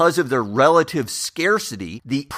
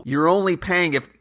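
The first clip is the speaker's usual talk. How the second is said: ordinary talk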